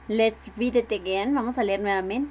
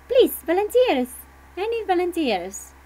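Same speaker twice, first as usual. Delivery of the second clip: higher, louder pleading for volunteers; 7 semitones higher, 4 dB louder than usual. Real, not acted. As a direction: coax the shy class into reading. Teacher begs silent class. (maestra suplica voluntarios a la clase, más aguda y fuerte)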